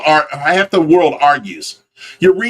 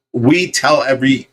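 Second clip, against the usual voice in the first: usual speaking voice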